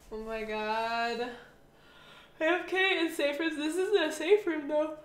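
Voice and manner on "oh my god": slow, through a yawn. Real, not acted. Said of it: "Sorry for the yawns".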